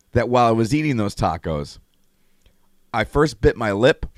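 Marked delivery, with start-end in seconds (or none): 2.9-4.1 talking with a bitten lip; swollen lip lisp. Real, not acted. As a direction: speak round a swollen lip. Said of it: "that's why I sound like I have a lisp".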